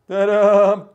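loud triumphant reveal. Real, not acted. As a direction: present it like a magic trick. Revealing the cut egg.

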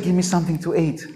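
the prophet asking the widow gently for food. Retold or imitated. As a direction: say it softly, almost kindly. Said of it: "Maybe he said".

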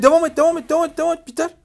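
high, loud urgent shouting; frantic rallying cry; excited yelling. Real, not acted. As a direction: push your teammate on at full voice. Urging teammate on mid-fight.

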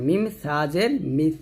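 tongue tip to upper teeth ending মিস; tha, not seen. Shown as a demonstration. Teacher contrasting tha with seen, lisped th ending in মিস. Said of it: "সা হলে জিহ্বাটা উপরে দাঁতে".

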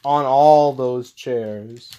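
high cry, then slow and drawn out; excited exclaim. Real, not acted. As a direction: stretch out the shock at the crash. Wrestler driven through the chairs.

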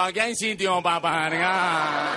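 loud, high, stretched-out calling; parking-attendant bull. Acted. Bull in reflective vest to drivers, drawn-out calling. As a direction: holler slowly like a street parking helper. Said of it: "ves al toro con un chaleco reflectante diciendo".

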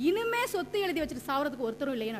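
quick, lightly imitated tearful lament; hint of a put-on wail; mock crying. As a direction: mimic a weeping man's complaint in a rush. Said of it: "அழுதுகிட்டு".

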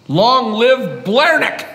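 slow, loud, high rallying cheer; mock rally cry. President hailing the leprechaun overlord, slow mock cheer. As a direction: proclaim it like a cult chant.

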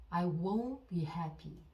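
very slow, each word spaced out for repeating; dictation-slow teacher read; slow model sentence. Shown as a demonstration. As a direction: say it slowly so learners can follow. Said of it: "듣고 따라해 보세요".

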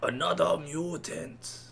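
slow, drawn-out villain growl; a hint of a cartoon villain; Shredder voice. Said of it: "That actually just sounded like Shredder".

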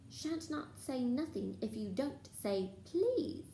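high, slow, teasing singsong; annoying singsong. Acted. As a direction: sing it to annoy. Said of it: "in his annoying singing voice".

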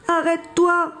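high-pitched plea, no extra volume; exhausted cry. A narrator's reading. Billy pleads with the running bison, crying out exhausted. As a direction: beg it to stop, worn out. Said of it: "crie Billy à bout de force".

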